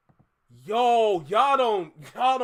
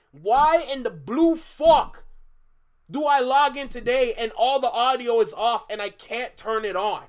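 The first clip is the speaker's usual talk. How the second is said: real rage; 5 dB louder than usual. Real, not acted. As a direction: vent the anger, leaning on it. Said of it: "the rage that I'm feeling".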